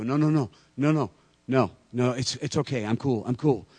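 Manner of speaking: high, loud retold backpedalling; hasty placating. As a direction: rush to calm someone who is backing away.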